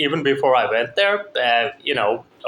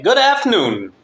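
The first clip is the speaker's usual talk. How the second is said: high-pitched, slightly louder imitation; emphatic repeated greeting; 10 semitones higher, 4 dB louder than usual. Employee's son repeating a greeting not understood, imitated high and emphatic. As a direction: mimic someone repeating a greeting, pitched well up.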